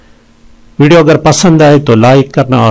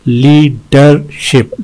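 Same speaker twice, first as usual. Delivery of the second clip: "लीडरशिप" slowly, in three beats; syllable breakdown; slower than usual. Shown as a demonstration. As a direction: separate each syllable of "लीडरशिप". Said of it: "इसमें तीन हैं". ("लीडरशिप" तीन हिस्सों में धीरे)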